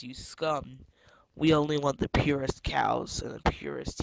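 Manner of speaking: sneering panto villain. Acted. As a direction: sneer it like a cartoon tyrant. Villain threatens the prisoners.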